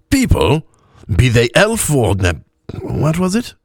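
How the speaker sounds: high, halting tipsy voice; drunk elf. A narrator's reading. Drunk elf asking his companion for a word, halting tipsy voice. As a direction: grope drunkenly for the forgotten word.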